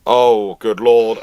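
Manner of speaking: ordinary delivery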